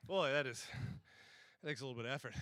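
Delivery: winded after the costume run; out of breath. Real, not acted. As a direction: talk while catching breath. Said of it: "While I catch my breath".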